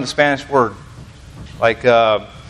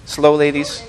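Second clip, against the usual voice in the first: teasing announcement; 3 semitones higher than usual. Retold or imitated. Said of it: "And then I'd say".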